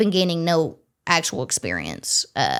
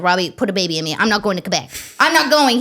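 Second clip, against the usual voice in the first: pleading; faster than usual. Retold or imitated. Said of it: "went home to Robbie and said".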